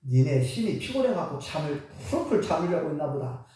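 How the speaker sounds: low-pitched, understated mocking jab; taunting. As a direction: tease them in a low voice. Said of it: "약 올립니다".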